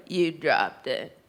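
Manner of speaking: low, slow deadpan clerk; imitating the flat store clerk. Comic imitating the store clerk blaming her mom.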